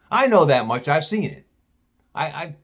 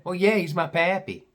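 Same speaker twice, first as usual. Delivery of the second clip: higher-pitched mock Southern gal; deep Southern accent; 4 semitones higher than usual. Gal confirms it's her pappy, mock Southern accent. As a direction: imitate a Southern girl confirming it. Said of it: "She had a real deep Southern accent".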